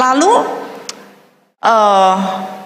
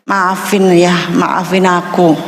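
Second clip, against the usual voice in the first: tender apology; 6 semitones lower, slower than usual. Retold or imitated. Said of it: "Saya bilang".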